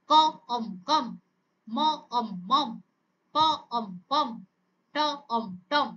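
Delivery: onset, rime, whole word, as in প... অম... পম; phonics sound-out. Shown as a demonstration. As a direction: say ক, pause, অম, pause, then blended কম. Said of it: "তার sound গুলোকে আমরা কি করব". (থেমে থেমে ক, অম, তারপর একসাথে কম)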